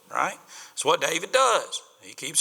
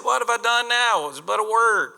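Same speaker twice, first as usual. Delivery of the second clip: put-on higher, louder protesting kid brother; indignant young David; 7 semitones higher, 5 dB louder than usual. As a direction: protest like a wronged little brother.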